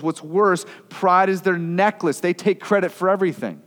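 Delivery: a hint of bitter envy; psalmist's complaint. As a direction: voice the envious psalmist griping. Psalmist voiced complaining of elites.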